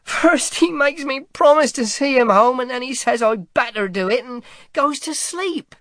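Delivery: put-on a worn-out boy crying it all out; sobbing boy. A narrator's reading. Boy sobs his story to Saint George, tearful. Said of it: "sobbed the boy".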